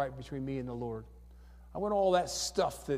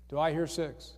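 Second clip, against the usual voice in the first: auctioneer. Pretend. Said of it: "There's that auctioneer again".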